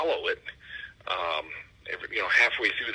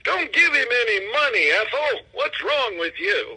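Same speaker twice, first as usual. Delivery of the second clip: put-on high squeaky old lady puppet voice, louder; a shrill little puppet heckling; squeaky ventriloquist dummy; 5 dB louder than usual. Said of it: "translate my jokes from a puppet".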